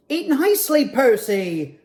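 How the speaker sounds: lightly voiced bossy penguin correcting manners; biggest penguin scolding. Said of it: "the biggest penguin said".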